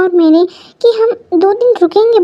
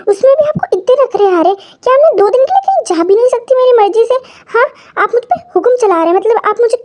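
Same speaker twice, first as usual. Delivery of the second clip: rising angry protest; 5 semitones higher than usual. Acted. Wife protesting to her husband who won't let her go, higher indignant voice.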